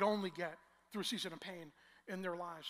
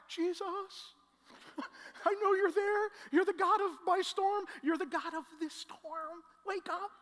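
higher, pleading call to Jesus; desperate prayer; 7 semitones higher, 3 dB louder than usual. Retold or imitated. Preacher retelling his prayer in the storm, higher and pleading. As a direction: beg him to wake up.

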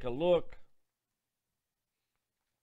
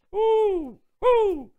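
high shouted woo; joyful whoops; 9 dB louder than usual. Real, not acted. Preacher whooping with happiness before the story. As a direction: whoop for joy. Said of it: "preacher's joyful whoops".

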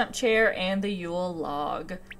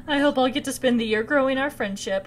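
higher, friendly villager read; cheery villager greeting; 4 semitones higher than usual. Acted. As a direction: greet her like an eager neighbour. Reads Lady M's greeting aloud.

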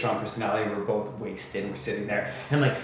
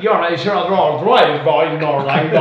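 mock hick drawl. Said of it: "he sounded literally like".

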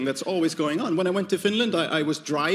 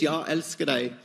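Swedish "Jag älskar dig", low and a bit softer; demoing Swedish "I love you" for the crowd, lower; Swedish phrase; 3 semitones lower, 4 dB quieter than usual. Shown as a demonstration. Swedish, lower and softer. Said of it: "In Swedish".

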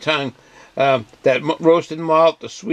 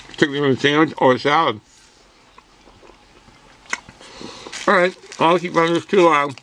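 talking through a mouthful; chewing while speaking; mouth full. Real, not acted. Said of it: "I'm talking with my mouth full".

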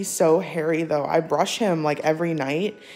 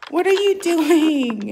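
amused question to cat; 11 semitones higher, 7 dB louder, slower than usual. Real, not acted.

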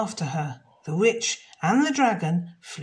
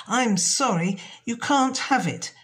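a little higher and louder, firm; polite refusal; 5 semitones higher, 4 dB louder than usual. Acted. Jenny refuses the witch, a touch firm. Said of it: "Jenny said".

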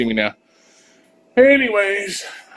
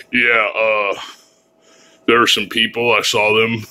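disguised lower informant voice; anonymous witness voice; 4 semitones lower, 4 dB louder than usual. Pretend. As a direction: talk like a hidden TV witness. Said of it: "change my voice so I talk like this".

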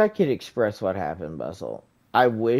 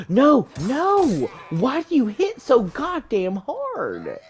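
panicked; 11 semitones higher than usual. Real, not acted. Getting hit hard in game.

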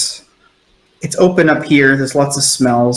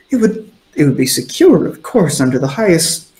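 blustering; 3 semitones higher than usual. Acted. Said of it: "there's kind of a bluster".

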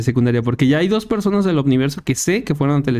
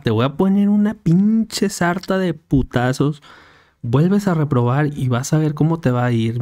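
mamá regañona. Retold or imitated. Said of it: "Así le dijo".

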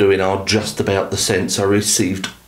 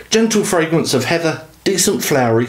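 jokey mock Scottish accent, pitched higher; bad Scottish accent; 6 semitones higher than usual. Reviewer quoting the scent description in a mock Scottish accent. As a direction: put on a hammy Scottish accent. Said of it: "really bad accent".

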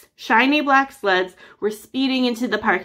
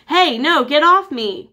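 loud, higher struggling yell; 6 semitones higher, 5 dB louder than usual. A narrator's reading. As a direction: shove them off with a shout. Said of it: "Quigley yelled".

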